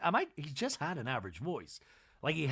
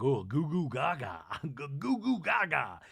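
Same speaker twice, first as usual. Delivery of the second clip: mock smitten babble; slower than usual. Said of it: "Sutton's like".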